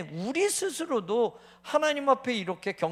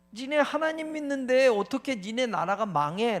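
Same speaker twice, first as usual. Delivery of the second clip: mocking jeer; 4 semitones higher, 4 dB louder than usual. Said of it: "라는 뜻이잖아요".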